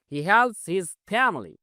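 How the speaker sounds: very slow, word by word; spaced-out classroom read; slow model reading. Shown as a demonstration. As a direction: dictate each English word slowly for learners. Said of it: "slow model sentence".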